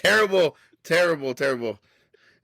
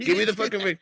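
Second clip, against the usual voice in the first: mock demand; 6 semitones higher than usual. Acting Daniel's rescue scene.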